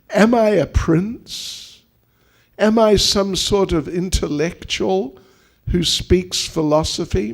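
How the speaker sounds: lightly voiced Krishna, earnest and emphatic; self-deprecating speech, lightly acted; mock-serious Krishna. Krishna teasing his royal wife, mock-serious. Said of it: "Krishna's talking like he's serious".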